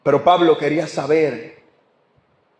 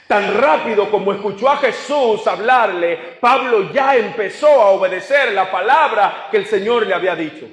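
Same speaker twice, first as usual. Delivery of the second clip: emphatic, higher-pitched sermon delivery; preaching; 4 semitones higher than usual. Real, not acted. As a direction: drive the point home like a preacher. Vuelve a predicar con fuerza. (predicando con énfasis, en tono más alto)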